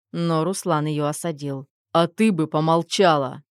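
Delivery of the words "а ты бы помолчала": sharp, louder snap; curt cut-off. Acted. Husband silences his sister with a sharp snap. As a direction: cut her off short and hard. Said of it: "Отрезал он".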